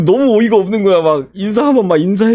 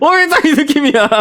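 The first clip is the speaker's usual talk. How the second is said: higher, put-on cute anime voice on 딱 이 느낌이야; vtuber imitation; 7 semitones higher than usual. Shown as a demonstration. Vlogger showing viewers the vtuber's vibe in a cute high voice. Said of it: "이걸 어떻게 설명해야 되나?".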